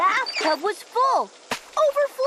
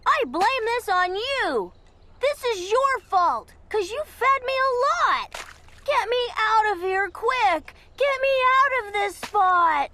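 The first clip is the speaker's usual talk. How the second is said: higher-pitched, lightly voiced fish grumbling at the boy; a cross little goldfish pinning the blame on you; complaining goldfish; 5 semitones higher than usual. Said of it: "as much as to tell me".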